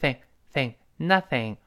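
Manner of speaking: "thing" with a clear unvoiced th; tongue-tip th. Shown as a demonstration. Teacher drills the th sound, clear th in "thing". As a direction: brush the tongue on the upper teeth in "thing", "nothing". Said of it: "这个thing又是舌尖伸".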